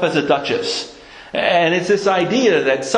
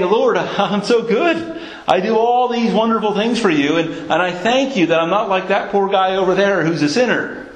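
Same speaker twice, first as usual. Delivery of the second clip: smug Pharisee; 2 semitones higher than usual. Retold or imitated. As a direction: send up his boasting prayer with a chuckle. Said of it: "he's saying".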